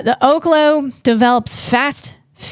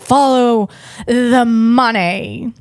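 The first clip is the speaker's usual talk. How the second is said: John Lovitz impression; much slower than usual. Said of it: "That's what John Lovitz would say".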